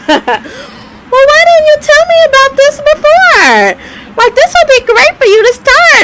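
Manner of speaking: can't get the therapist's words out without laughing; laughing through the quote. Retold or imitated. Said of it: "and she said".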